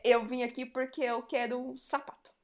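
quoting the frog. Retold or imitated. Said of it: "ele fala".

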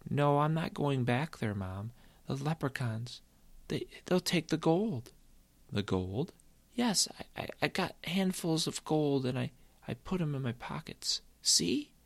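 put-on high, stammering child's protest; scared to go back, tripping over words; boy refusing to go back, stammering; frightened boy.

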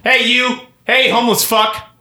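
high-pitched aggressive hail; calling out. Pretend. Suspect hailing a homeless man to fight, calling out. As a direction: call roughly to someone down the street.

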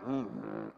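low, soft grumbling hum of refusal; lion growl. Retold or imitated. Father refusing his son's request to go watch a match, low growl. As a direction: rumble a disapproving no like a lion. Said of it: "I growl like a lion".

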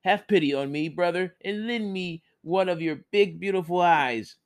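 high, whining plea; begging. Acted. Blind Viho begs the buffalo for an eye. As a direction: grovel pitifully to the buffalo. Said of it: "he begged".

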